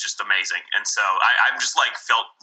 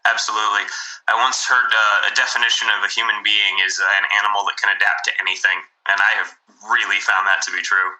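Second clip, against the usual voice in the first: thin, tinny phone line sound; like a bad phone call; tin can phone call; 2 semitones lower than usual. Real, not acted. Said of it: "it's going to sound like a sort of a tin can phone call".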